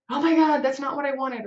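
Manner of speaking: high, loud alarmed outburst; panicked exclamation. Retold or imitated. Boss reacting to team's work with panic. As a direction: blurt it out in sudden alarm.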